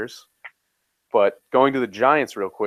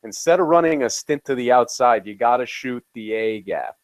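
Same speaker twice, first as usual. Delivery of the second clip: coach breaking down film; 2 semitones higher, 3 dB louder than usual. Retold or imitated. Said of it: "And he's just like".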